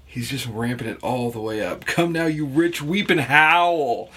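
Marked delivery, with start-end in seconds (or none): 1.9-4.1 slow, louder ranting prophet; wild-eyed yelling. Retold or imitated. Host voicing James ranting at the rich, slow and louder. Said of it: "James is kinda yelling at this point".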